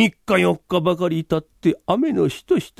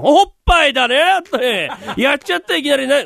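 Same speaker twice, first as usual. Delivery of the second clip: laughing leer; 7 semitones higher, 4 dB louder than usual. Acted. 客が話に茶々を入れ笑う.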